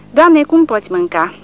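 put-on astonished old soldier watching a glutton; amazed. A narrator's reading. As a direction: gasp it out in disbelief. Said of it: "îi spune uimit bătrânul".

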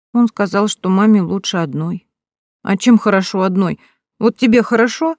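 a hint of an earnest small boy asking; little boy Pashka.

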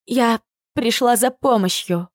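hoarse, shaken reply. Acted. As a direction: rasp it out after the fright. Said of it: "хриплым голосом отвечаю". (хриплым голосом)

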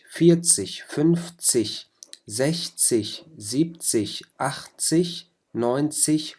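each of فيرتسج to ناينزج clipped with the German "-zig" ending; German tens. Shown as a demonstration. Teacher models German tens for students. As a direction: model فنفزج, زحزج, زيبزج one by one. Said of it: "أول أربع أحرف ... وبنضيف لها تسج".

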